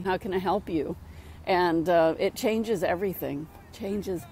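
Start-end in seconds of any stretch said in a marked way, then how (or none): 0.0-1.0 soft, calm offer of help; a quiet, soothing question to an upset person. Shown as a demonstration. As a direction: say it gently, to calm them down. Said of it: "you just be really calm and say".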